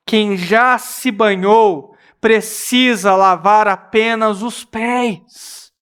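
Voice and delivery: slow, gentle reply; Jesus gently explaining to Peter, slow and calm. Acted. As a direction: answer calmly and slowly. Jesus voiced calmly.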